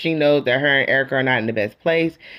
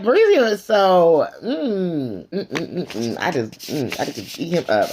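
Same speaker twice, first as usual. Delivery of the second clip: swooning over him; slower than usual. Retold or imitated. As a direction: melt into appreciative mm's. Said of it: "And I was just like".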